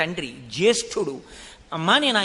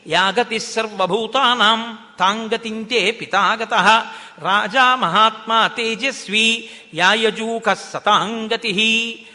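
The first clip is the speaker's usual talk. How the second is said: slow, louder chanted Sanskrit verse; shloka recitation; 3 dB louder, slower than usual. Acted. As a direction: intone the shloka like a pravachanam. (శ్లోక పఠనం, నెమ్మదిగా గట్టిగా)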